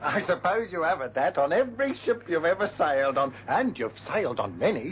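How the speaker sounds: chuckling through the words; amused ribbing with laughter in the voice; laughing tease. Acted. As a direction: tease him while laughing. Teasing the carpenter.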